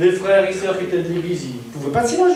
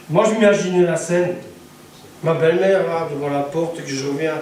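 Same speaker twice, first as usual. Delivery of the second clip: ordinary talk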